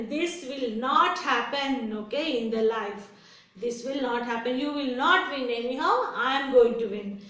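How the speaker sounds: mildly proud, emphatic dismissal; a touch of storybook bragging; proud boasting. Acted. Rabbit tells tortoise he will lose, mildly boastful. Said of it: "proudly this rabbit said".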